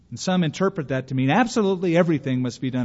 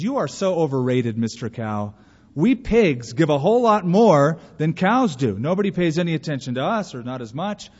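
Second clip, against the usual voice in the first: disgruntled pig; 3 dB louder than usual. Acted. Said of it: "the pig was so disgruntled".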